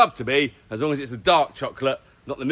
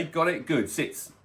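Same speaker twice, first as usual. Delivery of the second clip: quiet command to dogs; 7 dB quieter than usual. Real, not acted. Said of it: "They've been told".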